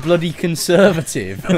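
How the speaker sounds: imitated Cockney shout, drawn out slowly; mock British shout. Player retelling what a game character shouted, mock British shout. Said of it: "he just shouted".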